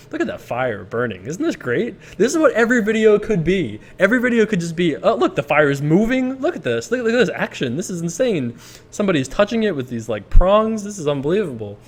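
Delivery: hammed-up, high-pitched wonder; mock amazement. Vlogger marvelling at his fireplace video, in mock amazement. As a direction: gush in pretend excitement over nothing much.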